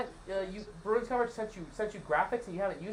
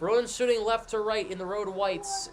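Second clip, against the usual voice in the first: brisk hockey play-by-play call; live play-by-play; slower than usual. Acted. Streamer sets up the Bruins game for chat in live play-by-play. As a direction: call the action as it happens.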